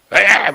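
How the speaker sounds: short, loud mock yell; mock shout of a yelling lecturer; imitated yelling. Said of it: "막 소리만 질러대고".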